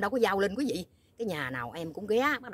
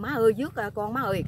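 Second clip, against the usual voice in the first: calling out; 5 semitones higher, 5 dB louder than usual. Retold or imitated. Retold calling out to mother.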